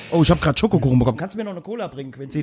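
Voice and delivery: talking with a mouthful; mouth full. Real, not acted. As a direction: speak round a bite of cake. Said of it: "jetzt mit vollem Mund".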